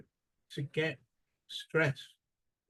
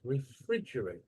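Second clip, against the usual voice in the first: Refrigerate with FRIDGE as the strong part; stress on second syllable; 3 semitones lower than usual. Shown as a demonstration.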